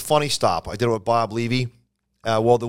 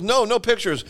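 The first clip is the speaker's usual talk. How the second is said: refusing headliner; 9 semitones higher than usual. Retold or imitated. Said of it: "He goes".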